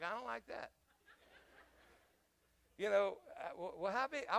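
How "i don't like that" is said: soft, laughing mock worry; laughing reply. Preacher telling the locals about aftershocks, laughing. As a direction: say it laughing nervously. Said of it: "I'm like".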